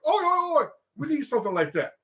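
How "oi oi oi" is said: high shouted oi oi oi; rowdy crowd answering the call; crowd reply. Retold or imitated. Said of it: "everybody goes like".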